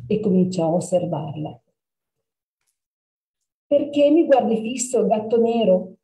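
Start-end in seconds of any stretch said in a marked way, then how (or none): 3.6-5.9 put-on bright curious girl, a bit higher; young girl puzzled by a staring cat. Girl asks the black cat why it stares.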